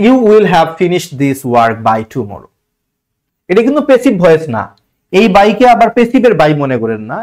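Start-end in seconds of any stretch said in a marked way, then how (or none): 0.1-2.5 very slow, word by word, reading out the sentence; slow dictation reading. Shown as a demonstration. Teacher reading the exam sentence to students, very slow and deliberate. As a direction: read it out slowly so students can follow.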